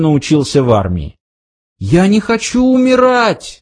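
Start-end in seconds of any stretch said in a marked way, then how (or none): 1.8-3.6 high panicked cry of fear. A narrator's reading. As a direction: scream it out in terror. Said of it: "закричал Артур". (высокий панический крик)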